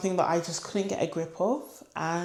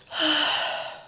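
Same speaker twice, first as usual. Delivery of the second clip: sigh; 10 semitones higher than usual. Real, not acted. Relief after heavy topic.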